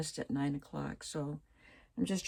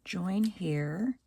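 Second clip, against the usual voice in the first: whispering; 3 semitones higher than usual. Real, not acted. Reading a label to herself.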